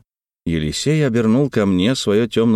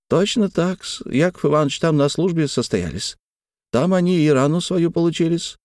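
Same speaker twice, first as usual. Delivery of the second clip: servant's deferential reply; 7 semitones higher than usual. A narrator's reading. Servant answering.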